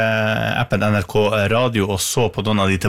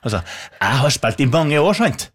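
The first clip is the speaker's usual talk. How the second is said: attempted Trøndelag accent, pitched up on the tag; 3 semitones higher than usual. Host mimics last month's musician guest, attempted Trøndelag accent. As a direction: imitate a musician's Trøndelag dialect, slightly off toward the north. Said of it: "prøvde å parodiere en musiker".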